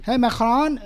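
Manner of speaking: imitating the president mocking Macron's French accent. Analyst imitating the president mocking Macron, mild mock French accent. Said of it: "He made fun of Emmanuel Macron's accent".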